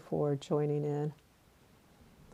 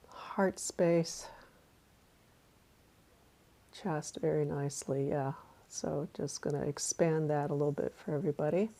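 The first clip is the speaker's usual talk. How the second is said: guided meditation. Acted.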